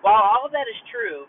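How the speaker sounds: poor car mic audio. Real, not acted. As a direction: sound like a cheap mic in a car. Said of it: "it was coming through the mic on my car".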